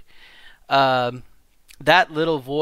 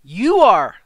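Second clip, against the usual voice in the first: much louder and higher, punch it out; emphatic shout; 7 semitones higher, 12 dB louder than usual. Real, not acted. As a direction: declare it loud to the whole room. Emphatic answer to her own question.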